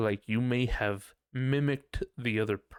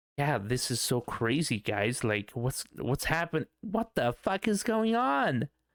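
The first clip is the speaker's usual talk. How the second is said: lighter, effeminate male voice; 3 semitones higher than usual. Imitating how he used to sound on past streams: imitating own past effeminate male tone. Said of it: "I can hear me doing that more like".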